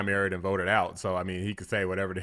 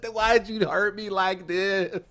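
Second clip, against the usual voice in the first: high, slow whiny wail broken by laughs; mocking a crybaby, higher and laughing; mock hurt through laughter; 10 semitones higher, much slower than usual. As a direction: laugh while faking a wounded cry. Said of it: "then it's like".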